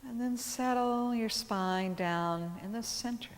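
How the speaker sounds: calm yoga teacher guiding breath awareness; measured phrases with long, settling pauses; guided meditation. Acted. Leads seated breath awareness.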